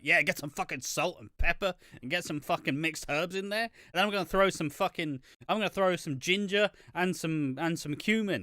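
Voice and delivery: lightly voiced boss tossing in spices; mock Vince the chef.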